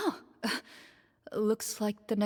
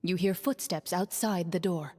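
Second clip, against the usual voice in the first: steady, even game master narration; scene narration. A narrator's reading. Game master describing the dark prison to players, measured narration. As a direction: paint the dungeon for the players, evenly.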